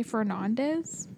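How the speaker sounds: "Fernandez" as fer-NAHN-dez; Southerner's pronunciation. Retold or imitated. Imitating people from the South near Mexico, "Fernandez" as fer-NAHN-dez. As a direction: say "Fernandez" with a broad "nahn" in the middle. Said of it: "if you're from the South".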